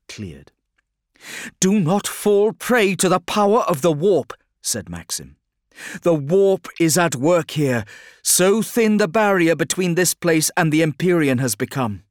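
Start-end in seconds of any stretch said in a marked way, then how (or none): 1.6-4.3 loud, high warning psyker voice; ominous psyker. A narrator's reading. 6.0-12.0 loud, high warning psyker voice; ominous psyker. A narrator's reading.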